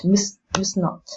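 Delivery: must and not hit firmly; stress on must not. Shown as a demonstration. Teacher drilling stress on must not. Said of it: "the important words are really louder".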